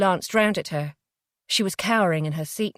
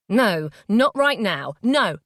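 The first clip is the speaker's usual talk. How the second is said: firm refusal; 4 dB louder, slower than usual. Acted. Jay refusing her.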